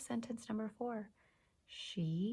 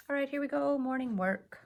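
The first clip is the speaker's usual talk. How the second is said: excited announcement; 6 semitones higher, 6 dB louder than usual. Real, not acted. Announcing the next activity.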